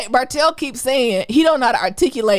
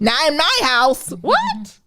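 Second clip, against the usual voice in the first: slow mock Delta drawl; Country Big Bird; 4 semitones higher, much slower than usual. Host riffing on Big Bird in the Delta, country Big Bird impression. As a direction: drag it out like a Southern country bird. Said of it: "If Big Bird was in a Delta".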